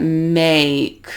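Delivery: slow make with an audible ay-ee glide; gliding diphthong demo. Shown as a demonstration. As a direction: make stretched long, the A gliding up towards ee. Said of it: "if you watch my jaw as I say that".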